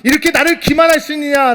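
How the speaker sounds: loud, high-pitched angry protest; outraged official demanding respect; indignant outburst. Acted. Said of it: "회당장이 화를 냈을까요?".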